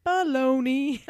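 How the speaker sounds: loud scoffing dismissal. Real, not acted. Scoffing at the claim.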